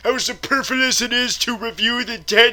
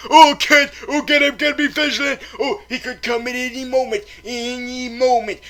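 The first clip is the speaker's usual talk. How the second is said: hammed-up nervous rush; mock paranoia. Reviewer warning Kent Deadpool could strike, mock-panicked. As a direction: fret fast like he's coming now.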